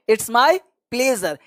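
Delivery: very slow, every word stretched out; slow demo. Shown as a demonstration. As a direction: say it slowly for learners to copy. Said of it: "या". (बहुत धीमे, शब्द खींचकर)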